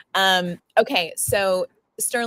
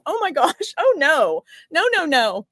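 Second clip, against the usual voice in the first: high, tearful protest; tearing up; 8 semitones higher, 4 dB louder than usual. Real, not acted. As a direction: fight back happy tears. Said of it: "I'm gonna keep crying again".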